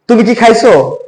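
কি said short and quick; "কি" clipped to a brief i vowel. Shown as a demonstration. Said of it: "আমি যদি বলি".

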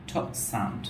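ঠ said with a strong puff of air; aspirated t sound. Shown as a demonstration. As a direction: say ঠ breathy and aspirated. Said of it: "এটা basically হচ্ছে".

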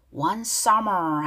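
"summer" ending in a drawn-out English R; ER sound pronounced. Shown as a demonstration. Teacher shows learners the ER in the lyric, R pronounced. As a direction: hold the R at the end of "summer". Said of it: "할 때 이알 발음 가죠".

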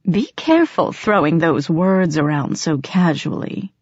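calm ominous warning. Acted. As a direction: caution her coolly. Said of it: "he warned".

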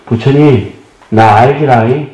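fond Jeolla-dialect plea, lightly imitated; a touch of Jeolla drawl, slowed, pleading to Buddha. Jeolla pilgrims outside the crowded hall, begging Buddha in Jeolla dialect. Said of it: "전라도 분들 ... 하시는 말씀이란".

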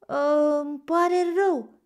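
put-on high, loud childlike regret; drawn-out, sorry little plaint; sad apology. A narrator's reading. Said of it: "șopti Bambi trist". (trist, cu părere de rău)

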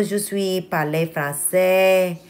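slow, hesitant amateur French accent; attempted French accent. Shown as a demonstration. Vlogger testing her French for viewers, attempted French accent. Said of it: "if I can do the French accent".

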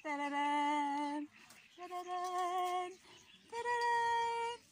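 calling chickens. Real, not acted.

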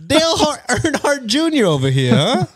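high, hammed-up Italian-American wiseguy; fake mobster accent. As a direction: heckle in a cartoon mobster accent.

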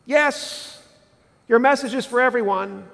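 high, mock pious pleading; reluctant believer. Churchgoer praying to God, mock pious and reluctant. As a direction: beg off politely while sounding holy. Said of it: "Can we say".

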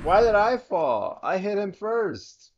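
raging gamer. Real, not acted. Died in game, raging.

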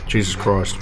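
talking round a mouthful of food; mouth full. Real, not acted. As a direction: say it while still chewing. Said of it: "Let me put a, some food in my mouth".

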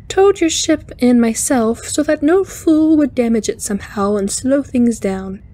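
high, lilting spider alien; cheerful alien speaking high; chiming alien voice. Acted. Alien answers Kirk.

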